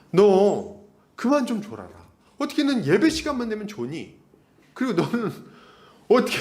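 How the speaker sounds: re-enacted nagging reproach; mild scolding. Acts teacher scolding dozing student.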